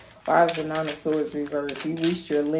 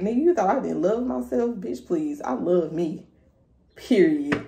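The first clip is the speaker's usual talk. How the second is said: sassy retort; 3 semitones higher than usual. Pretend. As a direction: throw it back with attitude. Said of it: "showing somebody like".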